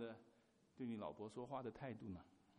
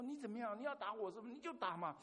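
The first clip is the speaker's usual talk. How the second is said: taunting wife; 8 semitones higher, 7 dB louder, faster than usual. Retold or imitated. Wife's taunt retold again.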